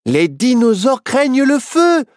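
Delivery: high, eager exclamation; lit-up, high story voice; sudden bright idea. A narrator's reading. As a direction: blurt out the solution as it dawns. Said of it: "s'illumina Nao".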